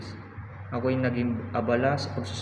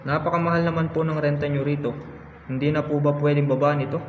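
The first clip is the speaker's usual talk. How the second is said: louder, slightly raised plea; mild protest; 3 semitones higher, 5 dB louder than usual. Acted. Rizal haggling over Paris rent, mild loud protest. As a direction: press the point in acted dismay.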